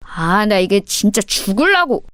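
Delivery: slow, mildly voiced exasperated threat; irritated threat. Bully fending off the hitting girl, irritated. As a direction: threaten through mounting irritation. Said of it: "일진 오빠가 제지하며 소리를 지르는".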